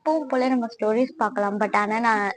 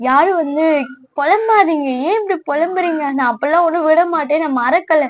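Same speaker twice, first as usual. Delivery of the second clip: louder, playful telling-off of her fans; affectionate big-sister scolding, louder; mock scolding; 3 semitones higher, 5 dB louder than usual. Real, not acted. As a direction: scold the viewers half-jokingly, voice raised. Scolding fans who complain.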